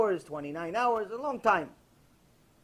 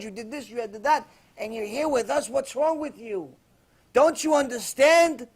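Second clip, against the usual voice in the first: gangster's plea; 3 semitones higher, 6 dB louder than usual. Retold or imitated. Gangster telling the suited cellmate to leave, loud and pleading. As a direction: shake him, he doesn't belong here. Gangster urging him he doesn't belong.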